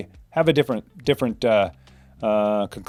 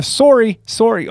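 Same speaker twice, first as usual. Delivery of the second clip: higher, louder Canadian "Sorry" with a long O; Canadian accent; 9 semitones higher, 6 dB louder, slower than usual. Shown as a demonstration. Streamer echoing a viewer's word, Canadian accent. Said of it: "is that a Canadian?".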